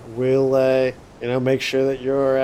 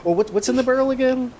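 put-on drunk friend voice; 10 semitones higher, faster than usual.

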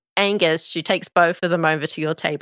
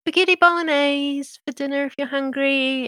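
Meadow voice; 7 semitones higher than usual. Acted. GM voices Meadow announcing dinner.

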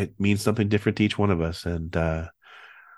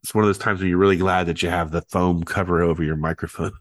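stuffy nose from a cold; talking through a head cold; nasal voice; 2 semitones lower than usual. Real, not acted. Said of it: "if you're noticing that I sound a little nasally".

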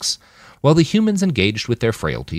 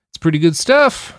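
higher, helpful friendly offer; 11 semitones higher, 4 dB louder than usual. A narrator's reading. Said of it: "Roland said in a helpful tone".

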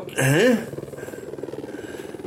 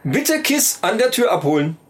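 store announcement. Acted. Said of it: "rede wie eine Kaufhausdurchsage".

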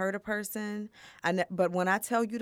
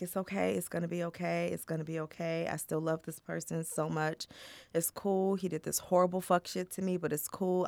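quiet self-soothing; 6 dB quieter than usual. Retold or imitated. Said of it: "it was just like".

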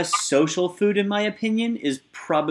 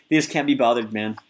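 attempted Australian accent; Aussie accent; 3 semitones lower than usual. Shown as a demonstration. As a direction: try an Australian accent, lightly. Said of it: "I'm gonna try to do an Aussie accent".

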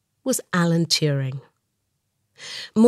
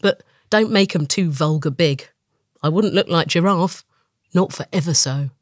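lightly voiced leopard, a touch haughty; a hint of a fussy leopard. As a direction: play the leopard turning up his nose. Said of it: "says the leopard".

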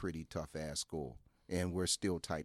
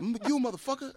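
retold yell; 7 dB louder than usual. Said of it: "Then a pencil".

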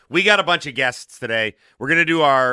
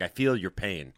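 emphatic response; 6 semitones lower, 7 dB quieter than usual. Shown as a demonstration. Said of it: "respond with a emphatic response".

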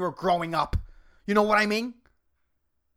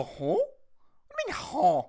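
mock confused huh; 6 semitones higher than usual. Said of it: "you go".

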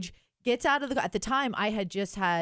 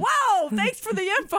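coworker's dry reply; 9 semitones higher, 5 dB louder than usual. Retold or imitated. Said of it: "and he's like".

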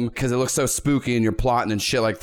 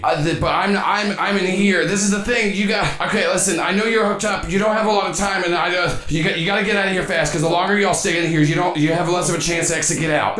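higher, pressing, urgent warning; father's robot voice; 4 semitones higher than usual. Acted. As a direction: warn them in a raised voice, tumbling over the words. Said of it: "his voice comes from there, goes".

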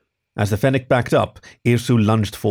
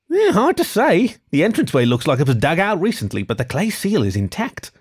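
short fennec voice; 7 semitones higher than usual. Acted. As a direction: voice the short fox sharply higher.

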